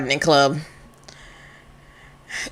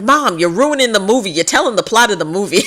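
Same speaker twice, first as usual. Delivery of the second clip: higher, whiny complaint to mom; whiny kid; 5 semitones higher, 3 dB louder than usual. Acted. Kid complaining to mom about the movie, whiny. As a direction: whine at mom like a sulky kid. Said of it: "He's like".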